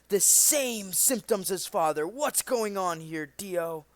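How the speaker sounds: loud, shocked realization; alarmed outburst. Acted. A son realizing his father is being poisoned, loud and shocked. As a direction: blurt it out in alarm.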